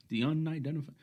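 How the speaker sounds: high, loud ring announcer call; boxing announcer. Retold or imitated. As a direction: announce it like a title fight. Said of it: "I started talking like a boxing, uh, announcer".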